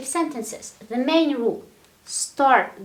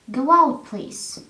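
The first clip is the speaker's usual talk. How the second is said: polite request; 2 semitones higher, 3 dB louder than usual. Shown as a demonstration. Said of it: "But you sound polite".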